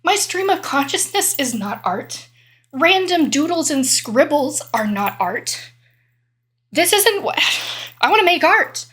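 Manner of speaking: mock frustrated artist complaining to herself. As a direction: whine that this isn't art. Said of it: "And they're like".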